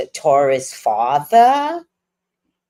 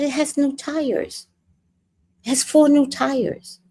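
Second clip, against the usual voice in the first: proud of himself; 10 semitones higher, 4 dB quieter than usual. Retold or imitated. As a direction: announce it proudly as mock dad. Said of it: "he was so proud of himself".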